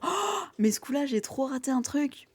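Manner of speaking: high, slow, rueful sigh of regret; regretful. Retold or imitated. Someone realising they missed their chance, slow rueful regret. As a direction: mourn the missed chance, drawn out.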